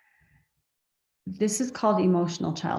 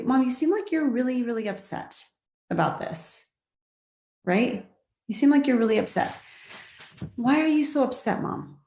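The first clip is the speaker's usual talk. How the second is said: calm and curious; 5 semitones higher than usual. Shown as a demonstration. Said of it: "I'm curious and I'm calm".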